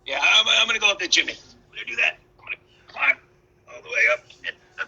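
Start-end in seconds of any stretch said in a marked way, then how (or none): 1.3-4.9 whisper. Acted. Wolf sneaking to chimney.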